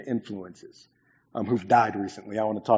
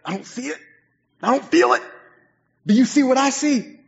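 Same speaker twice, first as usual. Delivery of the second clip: higher, groaning complaint; mock gloomy doubt; 6 dB louder than usual. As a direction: whine in mock despair. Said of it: "And I'm like".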